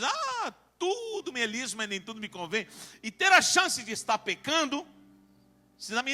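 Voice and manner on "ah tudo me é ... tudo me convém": lax Christian. Acted. Preacher quoting a permissive Christian to church, lightly mimicked. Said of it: "um cristão que diz".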